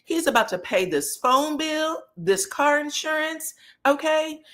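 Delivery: high, sassy mock of Kimmy; high, indignant clapback. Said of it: "And Kimmy said".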